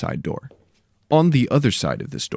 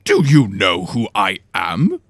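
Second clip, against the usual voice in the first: louder, slow put-on indignation; mock annoyance; 5 dB louder, slower than usual. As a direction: pretend to be offended. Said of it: "clearly faking annoyance".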